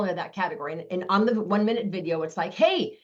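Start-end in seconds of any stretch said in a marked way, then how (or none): 2.5-3.0 excited. Shown as a demonstration. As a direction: sell it like big news to a friend. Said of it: "I literally sound this excited".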